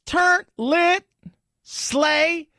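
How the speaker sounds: high, trilled mock-hip exclamations; hammed-up, high-pitched youth-slang act; imitating slang-spouting presenters. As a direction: roll a long trill, then punch out slang words. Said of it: "I see them go".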